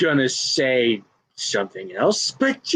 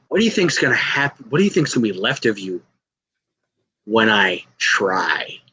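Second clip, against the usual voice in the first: menacing promo; 3 semitones lower than usual. Acted. Wrestler warning a rival what happens when serious, menacing. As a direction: drop lower and space out each condition.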